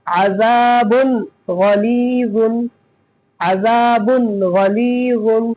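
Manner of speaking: "अजाबुन गलीजुन" slowly, with the n clearly sounded; teacher's slow model reading of "अजाबुन गलीजुन"; clear nun. Shown as a demonstration. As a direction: stretch the long vowels, pronounce the n of "अजाबुन" plainly. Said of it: "जाहिर करके पढ़ेंगे".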